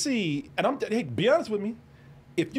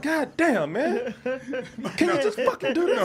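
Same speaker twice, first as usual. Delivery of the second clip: angry; 5 semitones higher than usual. Retold or imitated. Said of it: "I'm like".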